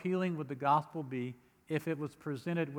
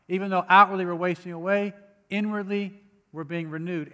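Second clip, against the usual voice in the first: emphatic scripture read; 3 semitones higher, 7 dB louder than usual. Acted. Preacher rereads verse with emphasis.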